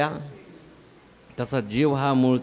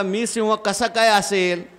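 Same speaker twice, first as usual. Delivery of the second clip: disbelieving cub; 6 semitones higher than usual. Acted. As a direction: protest in wonder, voice up. Lost lion cub disbelieving. (चकित होऊन अविश्वासाने)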